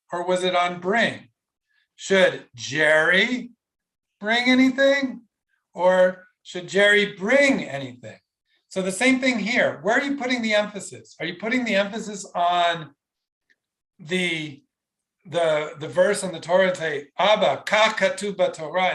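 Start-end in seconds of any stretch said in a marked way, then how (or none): 1.9-8.2 first on Jerry, then on bring; stress demo. Shown as a demonstration. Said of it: "what was the emphasis?". 17.2-18.9 a hint of aggression in "kach katuv"; mock aggressive. Shown as a demonstration. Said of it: "in an aggressive way?".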